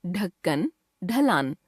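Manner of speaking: "ढक्कन, ढलान" starting on an aspirated retroflex stop; undotted ढ sound. Shown as a demonstration. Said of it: "आइए इनका उच्चारण करके देखते हैं". ("ढक्कन, ढलान" में ढ का स्पर्श उच्चारण)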